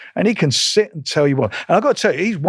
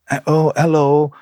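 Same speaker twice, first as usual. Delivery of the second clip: imitating a limp, mopey slowed hello; mock the boxer's droopy, whinging phone voice; mopey Joe. Promoter mimicking a whinging Joe on the phone, mopey and slow. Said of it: "he's all like that".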